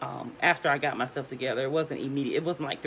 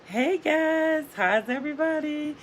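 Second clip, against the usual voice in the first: very high, louder singsong greeting; stretched, pitched-up fake-cheery greeting; feigned cheer; 13 semitones higher, 4 dB louder than usual. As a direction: put on a bright hello to cover bad news. Mom feigning cheer to kids.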